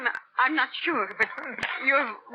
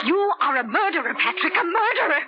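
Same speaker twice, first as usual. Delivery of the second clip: accusing; 5 semitones higher than usual. Acted. Wife accuses husband.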